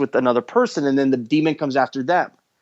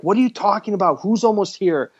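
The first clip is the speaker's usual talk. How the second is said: higher, pushy demands to be untied; indignant demand; 4 semitones higher than usual. Retold or imitated. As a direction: snap at him to untie her. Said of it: "she's like".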